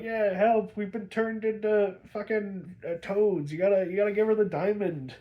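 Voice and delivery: high, urgent pleading voice; panicked sidekick. Retold or imitated. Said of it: "the toad Robin's like".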